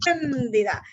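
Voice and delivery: "espléndida" with the force on PLÉN; teacher's demo of "espléndida", stressed on the third-last syllable. Shown as a demonstration. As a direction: lean on PLÉN in "espléndida", let dida go. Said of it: "¿Dónde hago la mayor fuerza de voz?".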